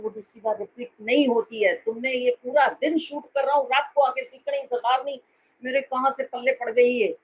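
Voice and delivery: a director's loud, angry dressing-down; angry scolding. Retold or imitated. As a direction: scold the actress hard in front of the set. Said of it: "और इतना गुस्सा किया". (गुस्से में ज़ोर से डांटना)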